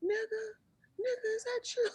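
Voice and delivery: high, tearful calling out; crying call. Retold or imitated. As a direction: cry it out, high. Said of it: "Antoine Fisher".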